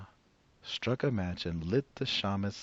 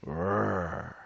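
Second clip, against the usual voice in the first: bear growl. Acted. Bear growling his choice of jam. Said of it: "Old Bear growled".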